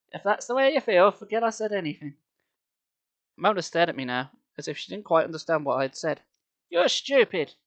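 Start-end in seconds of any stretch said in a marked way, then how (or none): 0.1-2.2 put-on little boy squeak. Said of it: "I squeaked in my little boy voice". 6.7-7.5 put-on snotty little girl. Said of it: "she said".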